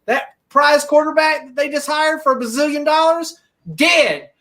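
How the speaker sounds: rising angry rant, pitch climbing high; heated rant about vaccine refusers; furious rant. Real, not acted.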